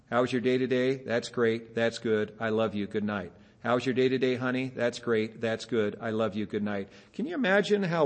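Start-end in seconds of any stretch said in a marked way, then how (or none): 0.1-3.3 low, flat-dull rote lines, mildly bored; bored husband. Retold or imitated. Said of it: "the exact same boring old lines". 3.6-6.9 low, flat-dull rote lines, mildly bored; bored husband. Retold or imitated. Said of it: "the exact same boring old lines".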